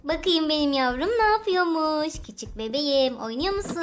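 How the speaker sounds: put-on mother cooing over her baby; tender baby talk. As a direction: coo to the baby.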